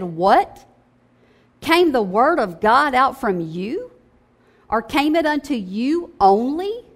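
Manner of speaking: sarcastic disbelief, "What?" stressed and rising; sarcastic emphasis. Shown as a demonstration. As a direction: lean hard on "What?" and "came". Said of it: "let's put some emphasis on there".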